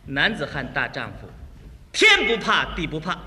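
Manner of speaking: heroic bluster. Acted. Husband boasts before crying wife, heroic bluster. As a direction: boast like a fearless hero.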